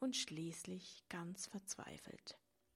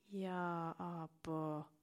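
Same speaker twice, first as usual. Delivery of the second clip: mistrustful; much slower than usual. A narrator's reading. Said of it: "argwöhnte die Traurigkeit".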